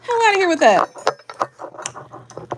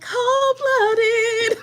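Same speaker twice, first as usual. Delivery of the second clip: higher, drawn-out mock comic delivery; comedian's catchphrase quoted in a higher put-on voice; Dave Chappelle; 10 semitones higher than usual. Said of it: "Dave Chappelle was like".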